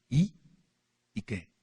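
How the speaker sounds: mock defiant boast, lightly voiced; defiant challenge. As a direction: taunt them with a shrug. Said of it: "Ellos así, retando". (desafiante, retador, apenas actuado)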